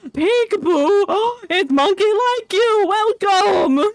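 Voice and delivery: light up to welcome a newcomer; excited greeting. Real, not acted. Streamer welcoming a new viewer in chat, excited.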